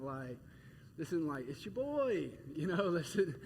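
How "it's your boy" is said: casual greeting. Pretend. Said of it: "this isn't really casual".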